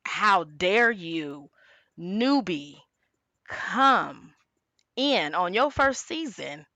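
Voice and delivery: slow, word-by-word mock indignation; hammed-up offended retort; affronted veteran, imitated. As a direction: put a newcomer in their place, pausing between phrases. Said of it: "she's seeing it as an attack".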